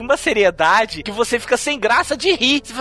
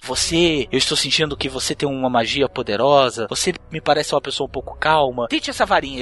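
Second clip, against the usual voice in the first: a hint of a solemn old wizard, a bit lower; old wand seller; 6 semitones lower than usual. Old actor to audience member, lightly voiced solemn wizard. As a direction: lightly play the grave old actor picking someone. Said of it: "ele escolhe alguém da plateia e fala assim".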